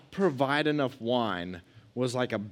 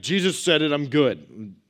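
sassy comeback; 3 semitones higher, 6 dB louder than usual. Retold or imitated. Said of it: "be like".

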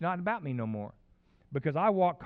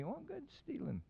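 sarcastic; 11 semitones higher, 12 dB quieter than usual. Acted. Pastor mocks the finder's logic.

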